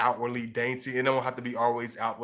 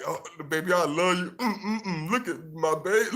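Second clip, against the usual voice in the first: higher, cooing, close to laughing; mock mushy lover; 6 semitones higher than usual. A showy boyfriend cooing over his girl, hammed-up and laughing. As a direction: coo like a lovesick guy, half-laughing. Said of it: "he's like".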